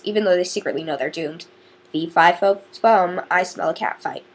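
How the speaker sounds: lightly dramatic reading of a blurb; a light, showy book-blurb read; reading aloud. Acted. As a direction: read the back cover with a bit of flair.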